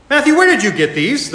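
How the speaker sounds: high, loud startled father calling out; father's sharp demand. Acted. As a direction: demand an answer like a shocked dad. Father confronts son over comics.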